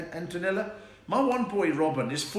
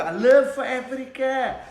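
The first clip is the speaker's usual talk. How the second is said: loud, high, drawn-out mock declaration; hammed-up zealous cry; impassioned son; 10 semitones higher, 8 dB louder, slower than usual. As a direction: proclaim it as the fervent son. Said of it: "he's like".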